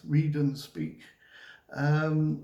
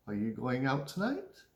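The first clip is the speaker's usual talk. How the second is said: "Are you going out tonight?" softer, tone climbing at "tonight"; question intonation; 2 semitones lower, 5 dB quieter than usual. Shown as a demonstration. Teacher modelling "Are you going out tonight?", questioning rise. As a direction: ask it softly, lifting "tonight" at the end. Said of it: "usually your tone goes up a little bit".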